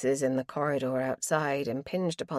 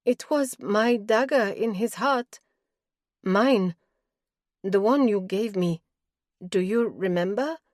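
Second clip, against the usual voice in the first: tearful, words jerked out, rising louder; weeping, jerking out the words; 2 semitones higher, 4 dB louder than usual. Acted. Doro confessing to Hemp about the dagger, weeping and halting. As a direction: choke the words out through tears. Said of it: "She was weeping by the end, jerking out the words".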